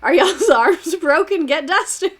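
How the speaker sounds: high, loud, slow smug taunt; hammed-up mocking president voice; mock Hoover. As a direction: taunt the people like a careless president. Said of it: "This is literally".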